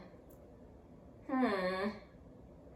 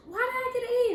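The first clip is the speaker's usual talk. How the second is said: high, loud retold protest; indignant outburst; 10 dB louder, faster than usual. Student challenging a failing grade, indignant outburst.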